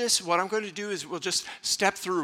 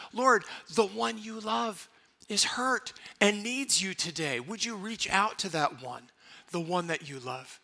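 intercessory prayer; 2 semitones higher than usual. Shown as a demonstration. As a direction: pray gently for another. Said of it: "we can do the same".

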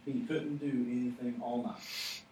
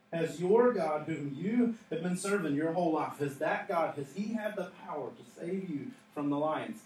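raised, urgent-sounding call; imitated yell; 2 semitones higher, 3 dB louder than usual. Preacher as the king questioning Daniel in the den, imitated yell. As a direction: call it down to him, strong first words then easing. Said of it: "he yells into this moment".

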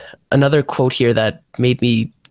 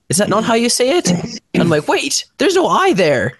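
retold bafflement; 9 semitones higher than usual. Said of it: "But I'm like".

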